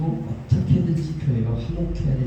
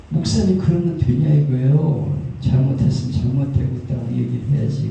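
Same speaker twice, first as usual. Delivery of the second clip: mock scolding; 2 semitones higher, 4 dB louder than usual. Pastor's wife objecting to his agreeing with both, scolding. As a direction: take him to task, voice raised.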